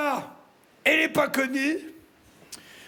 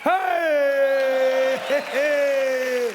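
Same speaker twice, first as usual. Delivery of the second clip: cheering whoop; 4 dB louder, much slower than usual. Acted. Cheer while showing off.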